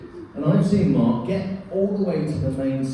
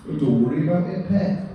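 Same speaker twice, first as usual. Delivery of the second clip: put-on Northern accent; 3 semitones higher than usual. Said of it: "that's my general purpose Northern accent".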